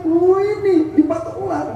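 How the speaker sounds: a high, strained "oh" then the confession; pained admission. Acted. Abu Bakar finally admits to the Prophet that a snake bit him. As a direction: reveal the bite through the pain.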